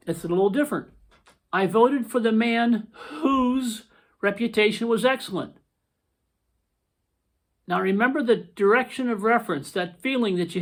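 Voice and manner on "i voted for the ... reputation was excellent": rereading the sample sentence. Shown as a demonstration. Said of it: "here's the second sample sentence".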